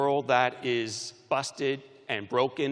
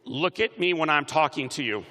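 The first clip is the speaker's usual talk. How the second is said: projected mock-stern command to a crowd; rallying demonstration; 2 semitones higher, 4 dB louder than usual. Shown as a demonstration. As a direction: call it out for everyone to copy. Leading graduates to say it aloud.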